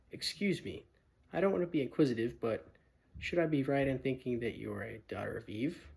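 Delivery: polite, nervous faun, quick at first; a timid faun asking carefully; shy faun. Acted. Fawn politely questions Lucy, lightly voiced nervous faun.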